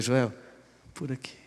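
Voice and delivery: soft, low and quiet, simply pointing the way; gentle guiding hush. Acted. Pastor quietly pointing the weeping Joel onward, tender. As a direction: answer his tearful question gently, almost murmured.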